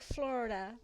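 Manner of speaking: "Florida" shortened to FLOR-da; imitated local pronunciation. Shown as a demonstration. Streamer conceding to viewers, "Florida" as FLOR-da. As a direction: say "Florida" in two syllables, American-style. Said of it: "It is, like".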